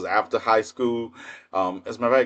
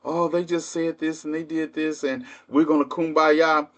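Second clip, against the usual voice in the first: high, sing-song mimic of peacemakers; mock sweet peace-talk voice; mocking naive people; 5 semitones higher than usual. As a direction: sneer at the kumbaya crowd by mimicking them. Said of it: "listening to people talk about".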